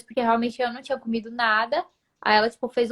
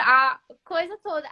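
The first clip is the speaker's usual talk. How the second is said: ordinary talk, nothing marked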